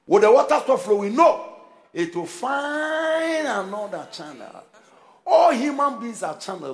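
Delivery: emphatic sermon, loud on key words; forceful preaching. Real, not acted. Preacher explaining God's channels to the congregation, forceful preaching. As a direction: drive the revelation home to the congregation.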